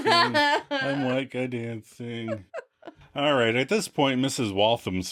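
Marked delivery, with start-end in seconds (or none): 0.1-2.4 very slow, laughing through it. Retold or imitated. Co-host narrating Joey's dance while laughing. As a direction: stretch it out while cracking up. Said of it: "He's like".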